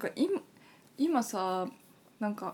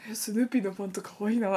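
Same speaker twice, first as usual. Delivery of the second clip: laughing retelling; faster than usual. Retold or imitated. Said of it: "とか".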